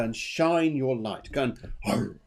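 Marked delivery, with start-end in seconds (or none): 1.9-2.2 low little roar like a lion; playful lion roar. Shown as a demonstration. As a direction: give a light lion roar. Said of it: "have a bit of a roar".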